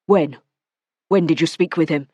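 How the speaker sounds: a man's voice turning hard and accusing; cold, accusing demand; Matthew, accusing. Acted. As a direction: press her for the truth.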